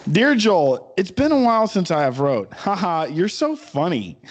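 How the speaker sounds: reading a creepy fan letter in a put-on voice. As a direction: read it like a clingy stalker's letter.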